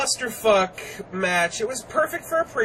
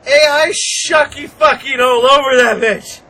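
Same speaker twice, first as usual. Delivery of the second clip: loud hype; 6 semitones higher, 10 dB louder than usual. Pretend. Hyped wrestling call.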